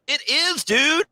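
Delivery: high, emphatic agreement; excited insistence. Retold or imitated. Agreeing with a player the move was historic, high and excited. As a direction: push it up with hyped certainty.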